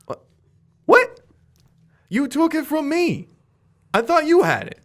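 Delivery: high, bewildered protest; a villain who can't believe it; baffled Skid. Acted. Villain confused, voiced by GM.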